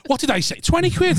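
high laughing slip-up. Real, not acted. Laughing at her own slip about the quid.

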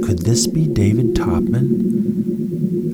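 lightly dramatic storybook reading; story narration. A narrator's reading. Narrator reading a space adventure to listeners, lively storytelling. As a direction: tell it like a bedtime adventure.

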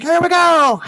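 high, drawn-out mock yell; retold screaming. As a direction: holler it like a skydiver leaping. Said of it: "he's screaming in my ear".

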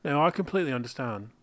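quick, lightly British reply; brisk British-ish accent; put-on British accent. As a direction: answer in a loose British accent. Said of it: "he's doing it".

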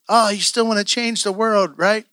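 light retold teasing; making fun. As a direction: needle him with mock sweetness. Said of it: "make fun of me".

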